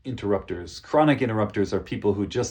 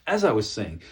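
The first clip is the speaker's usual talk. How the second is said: level, steady and serious, not rude; serious, direct tone. Shown as a demonstration. Speaker to a chronic interrupter, serious and steady. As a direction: state plainly that you're not finished. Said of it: "it kind of gives that serious tone".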